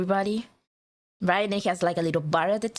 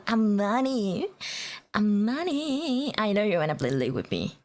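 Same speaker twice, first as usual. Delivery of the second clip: playful coaxing. Pretend. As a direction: stretch the name out teasingly. Playfully coaxing a viewer to play.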